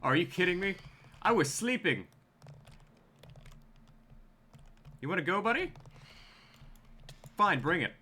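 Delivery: high, exasperated and challenging; annoyed at being woken, daring it on; rudely awakened. Real, not acted. Woken up in game, confronting mob.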